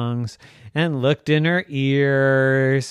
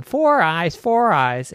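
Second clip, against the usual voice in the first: louder singsong taunt; teasing brat; 5 semitones higher, 5 dB louder, slower than usual. Acted. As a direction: keep chanting at her. Brother teasing all day.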